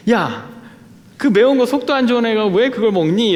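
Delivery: nagging mother. Retold or imitated. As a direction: lightly mimic mom scolding her grown son. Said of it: "이렇게 잔소리를 하시는". (엄마 잔소리를 살짝 흉내 내듯)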